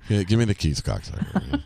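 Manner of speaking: low throwaway reading, sinking at the end; bored mock lineup recital.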